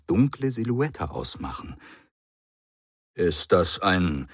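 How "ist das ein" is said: squint up at the sky in disbelief; astonished. A narrator's reading. The Brigadier sees a dark shape outside, astonished. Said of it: "fragte er erstaunt".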